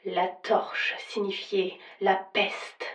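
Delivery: lugubrious, solemn ghost voice; vintage horror narrator. Acted. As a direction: pronounce doom like a spectre. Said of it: "d'une voix lugubre et solennelle".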